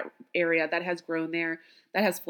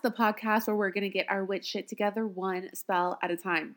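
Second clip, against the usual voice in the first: slowest ever; 3 dB quieter than usual. Shown as a demonstration. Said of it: "That may be the slowest I've ever said that".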